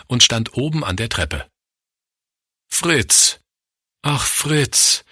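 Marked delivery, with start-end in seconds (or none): 2.7-5.0 high, falling sigh of pity; pitying sigh in a raised voice; sighed lament. A narrator's reading. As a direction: sigh the name sorrowfully. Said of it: "seufzte Schwester Frieda".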